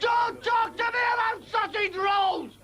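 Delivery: repeated outraged bellow. Acted. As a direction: hammer it home again. Ranting comic character.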